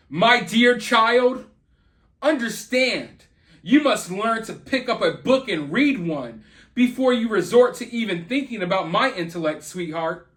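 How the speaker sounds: catty, condescending mock reading; sarcastic. Commentator reading a mother's post to her kid, sarcastically. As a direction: put sarcastic punch on the opening words. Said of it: "She's saying it sarcastically".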